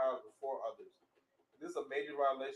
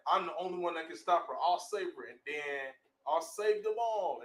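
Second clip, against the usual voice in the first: heroic vow; 3 semitones higher, 6 dB louder than usual. Acted. Young hero vowing to save everyone, bold. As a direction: swear it like a hero.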